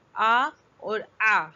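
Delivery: first آ plain, second آ forced from the throat, slowly; slow side-by-side vowel demo; hamza versus ain. Shown as a demonstration. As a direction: contrast a light آ with a throaty آ. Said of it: "لیکن عین، آ، یہ حلق کے درمیان سے پڑھا جاتا ہے".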